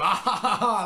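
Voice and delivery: high, loud put-on cackle; mock goofy laughter. Co-host mocking Kruger at his rooftop grill, goofy laugh. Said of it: "cooking grills, going".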